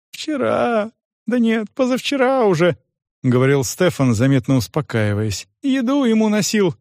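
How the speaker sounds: put-on high, pleading young voice; frightened cripple. Стефан оправдывается перед допросом, высоким испуганным голосом.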